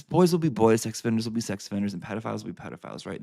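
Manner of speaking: sarcasm. Acted. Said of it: "Sarcasm over".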